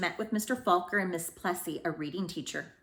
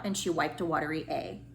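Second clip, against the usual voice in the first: ordinary delivery, nothing marked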